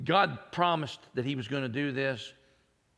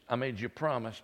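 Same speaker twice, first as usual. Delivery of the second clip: calm reassurance; faster than usual. Acted. God reminds Abram and Sarah, calm and reassuring. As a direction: reassure gently, like a promise kept. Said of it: "God reminds Abram and Sarah".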